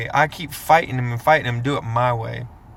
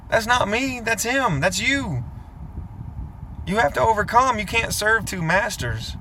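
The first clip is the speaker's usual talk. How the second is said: higher, gently scolding God voice; voicing God; 6 semitones higher than usual. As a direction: play God shaking his head at you, disappointed. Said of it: "you hear his voice ... shaking his head and going".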